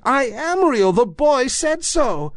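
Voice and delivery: high, small voice close to crying; near tears. A narrator's reading. Toy rabbit near tears before the wild rabbit. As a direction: hold back tears as a tiny bunny. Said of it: "he nearly began to cry".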